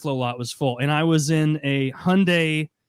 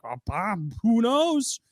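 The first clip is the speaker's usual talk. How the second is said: higher, slow, feigned innocence; mock innocent; 8 semitones higher, slower than usual. Staff member to Bob in mock innocence. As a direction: play dumb, drawn out and airy.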